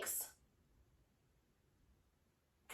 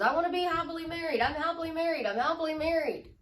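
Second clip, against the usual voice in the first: rapid, slightly raised, repetitive run; imitated eager affirmations; 4 semitones higher, much faster than usual. Strangers echoing the wish to be happily married, in rapid repetition. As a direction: rattle it off as a mock mantra. Voices others repeating the same affirmation.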